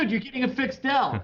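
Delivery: high, chirpy ad-guy voice; Dell ad guy. Retold or imitated. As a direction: quote the Dell commercial dude. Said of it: "and said".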